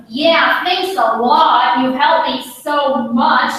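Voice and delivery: sarcastisch "thanks a lot", traag en overdreven; ironic. Shown as a demonstration. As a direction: spottend bedankje, langzaam uitgesproken.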